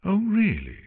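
high, mocking drawl; sarcastic drawl. A narrator's reading. Artemis challenging Luna, sarcastic drawl. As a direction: drawl it in mock disbelief. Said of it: "said in a sarcastic drawl".

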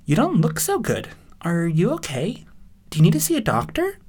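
high, concerned bystander mare; high-voiced, concerned onlooker; concerned pony.

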